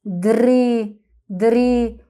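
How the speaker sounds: دري with a long held "ee" and no "a" after it. Shown as a demonstration. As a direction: say دري as a word part, stretching "ee". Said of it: "يبقى هننطقه بصوته".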